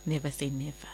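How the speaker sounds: soft echo. Real, not acted. Echoing guest's motto.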